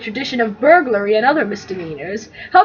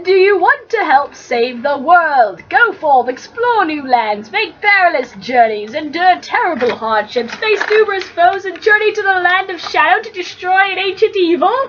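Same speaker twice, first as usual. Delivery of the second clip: grandiose heroic pitch; 4 semitones higher than usual. Acted. Frodo's grand recruiting pitch.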